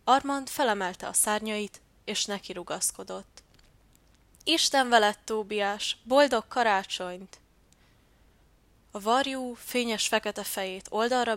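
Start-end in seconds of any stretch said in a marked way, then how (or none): 4.4-7.4 calling out farewell. Acted. Dove calls farewell while flying.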